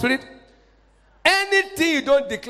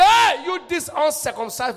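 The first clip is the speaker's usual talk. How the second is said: David's bold shout; 3 semitones higher than usual. Acted. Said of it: "The moment David came and said".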